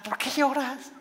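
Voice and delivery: mock the clueless question in a high silly voice. Shown as a demonstration. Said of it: "no le hagas esta pregunta".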